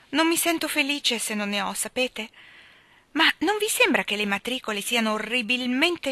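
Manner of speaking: put-on lively, light young woman's voice; a flighty girl gossiping breezily; lightly voiced chatterbox girl; chatty girl. Phil teasing new friends.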